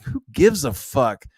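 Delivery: dismissive excitement. Retold or imitated. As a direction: gush about the power sword instead. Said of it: "I'm like".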